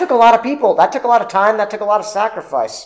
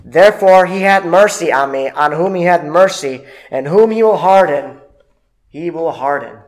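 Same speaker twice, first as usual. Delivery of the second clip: scripture reading; 4 dB louder than usual. Acted. Reads scripture aloud.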